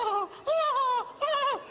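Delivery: high breathless surprised oh-oh; delighted gasp. Retold or imitated. Wife lighting up at an unexpected kindness, gasping high.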